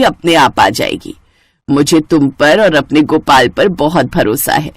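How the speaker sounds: low, loving mother-in-law voice; lightly voiced mother-in-law. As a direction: bless the new bride from the heart. (धीमी, प्यार भरी सास की आवाज़)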